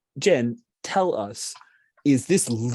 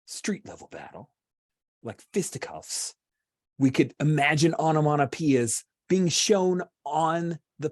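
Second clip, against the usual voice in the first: game master narration; 2 semitones higher than usual. Acted. Game master cutting to a battle, dramatic narration. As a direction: build suspense with measured pauses.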